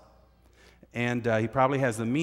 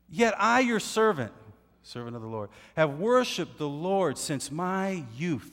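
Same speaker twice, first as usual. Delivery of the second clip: higher, proud acted voice; boasting servant; 5 semitones higher than usual. Obadiah boasting to Elijah, lightly acted. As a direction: boast of your service. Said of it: "He said".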